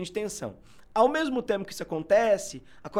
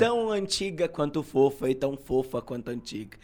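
sage voice; 4 semitones lower than usual. Real, not acted. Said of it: "Eu tô com essa voz de sábio hoje".

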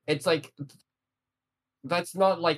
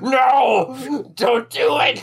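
loud, high desperate yell; frantic shout; 10 semitones higher, 9 dB louder, much slower than usual. Retold or imitated. Agumon shouting to stop Takeru eating mushrooms, frantic yell.

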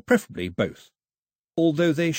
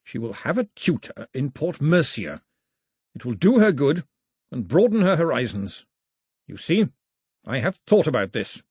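nearly shaking voice; 3 semitones higher than usual. Acted. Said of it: "in a voice that almost didn't shake".

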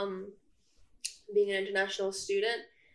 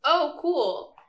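higher, louder imitation of an impressed classmate; mimicked polite interest; 6 semitones higher, 8 dB louder than usual. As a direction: act out someone's casual amazement. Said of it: "sometimes they would say things like".

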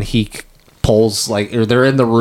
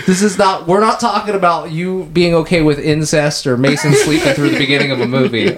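higher, laughing protest; mock-indignant rebuttal; 4 semitones higher than usual. Real, not acted. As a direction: argue back with amused outrage, pitched up. Indignant defence over cat accusation.

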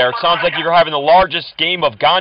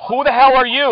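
much higher, louder, thrown-off demand; startled outburst; 9 semitones higher, 4 dB louder than usual. Real, not acted. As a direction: blurt it out, caught off guard. Surprised by new caller.

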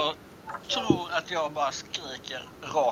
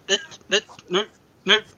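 excited insisting; 7 semitones higher, 3 dB louder, slower than usual. Acted. Player insists, pointing repeatedly.

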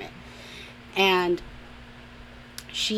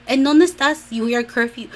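high, loud imitation of a demanding parent; scolding Mexican parent; 5 semitones higher, 6 dB louder than usual. Mexican parents to their daughter out late, mock scolding. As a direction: scold like a parent enforcing curfew.

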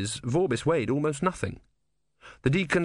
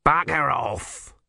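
angry shout; 4 semitones higher, 3 dB louder, much slower than usual. A narrator's reading. Scalby told off.

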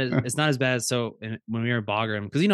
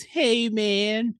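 high, drawn-out hippie greeting; Roger; 11 semitones higher than usual. Retold or imitated. Worker imitating Hawaiian shirt coworker, high hippie voice. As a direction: imitate a laid-back long-haired coworker, pitched up. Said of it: "You know Roger is".

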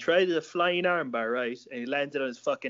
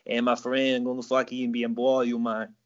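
put-on light Brazilian accent of a coach; mimicking a Brazilian jiu-jitsu coach, Brazilian accent; teasing Brazilian-accented friend; 3 semitones lower than usual. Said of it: "that's how he sounds".

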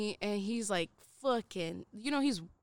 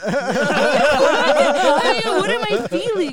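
alarmed question; 4 semitones higher, 13 dB louder, slower than usual. Retold or imitated. Acted panicked reply, laughing around it.

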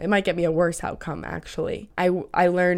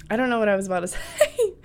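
laughing; 4 semitones higher, much faster than usual. Real, not acted. Laughs while losing her thought.

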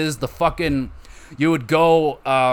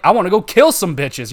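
put-on girlfriend voice; 5 semitones higher, 5 dB louder than usual. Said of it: "sometimes she'd just be like".

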